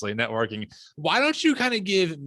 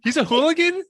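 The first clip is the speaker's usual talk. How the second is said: surprised; 11 semitones higher, 4 dB louder than usual. Real, not acted. Incredulous echo of hooligan claim.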